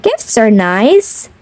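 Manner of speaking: lilting picture-book read-aloud; reading to children. Acted.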